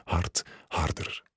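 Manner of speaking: breathless whispered hard, harder; hushed whisper building. A narrator's reading. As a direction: whisper it, urgent and close. Rising urgency in erotic scene.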